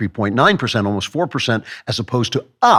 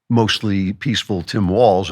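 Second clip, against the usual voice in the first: sarcastic. Real, not acted. Sarcastic epithet, slowed.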